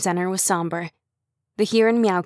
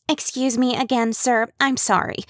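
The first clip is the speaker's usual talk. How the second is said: nervous polite interruption; 5 semitones higher than usual. Acted.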